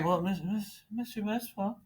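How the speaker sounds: high, whiny student pleading. Retold or imitated. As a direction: whine like a student. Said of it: "that's kind of the whiny student voice".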